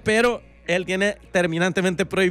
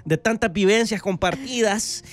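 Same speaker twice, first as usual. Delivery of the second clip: farewell-announcement tone. Pretend. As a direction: play a celebrity solemnly thanking the fans. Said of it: "con este tono de voz lo hablaría". (comunicado de despedida, pausado y solemne, en broma)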